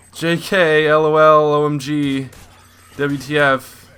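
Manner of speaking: loud, high burst of internet slang; excited shout. Acted. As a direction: blurt each letter pair out loud and high. Dropping the act with a joke.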